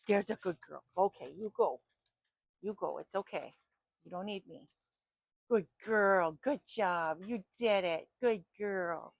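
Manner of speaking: loud, bright praise for a good dog; praising the dog. Real, not acted. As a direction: reward the dog with your voice.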